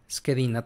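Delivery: schedina with sch as sk; Italian pronunciation demo. Shown as a demonstration. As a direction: softly model schedina with a hard k. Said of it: "tal cual se pronuncian".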